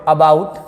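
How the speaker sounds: About starting on a short, unstressed 'uh'; short 'a' sound. Shown as a demonstration. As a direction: say About with a clear 'uh' first. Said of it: "अ पढ़ते हैं कहाँ पे?". (About की शुरुआत छोटे अ से)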